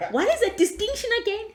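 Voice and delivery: high giggly disbelief at her own mark; laughing disbelief. Retold or imitated. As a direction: squeal it out through a laugh. Retelling her surprise at good marks.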